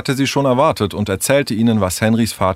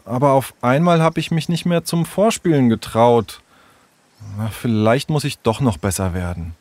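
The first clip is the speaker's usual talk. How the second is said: hesitant, lightly voiced young storyteller; reluctant troubled child; 3 semitones higher than usual. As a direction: reluctantly confide in your friends.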